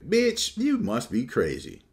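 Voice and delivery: put-on playful high-pitched girlfriend tease, pitch jumping up on Bitch; one friend playfully teasing another at a hangout. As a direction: tease her like a girlfriend would. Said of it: "and they go".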